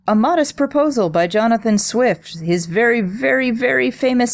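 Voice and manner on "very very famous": "very" jumps up high; emphatic very. Shown as a demonstration. Host stresses how famous the essay is, emphatic high very. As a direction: lift "very" way up for emphasis. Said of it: "repeated very for emphasis".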